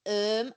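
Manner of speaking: "Um" as a mocking "erm" for home; crowd mimicking Hull vowel. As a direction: echo Hull "herm" as "Um", teasing. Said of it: "everyone in the crowd went".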